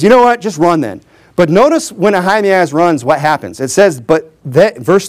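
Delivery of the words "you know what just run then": mock exasperation. Annoyed commander finally letting the runner go, mock exasperated. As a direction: give in, imitating someone fed up. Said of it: "He just gets so annoyed with this guy".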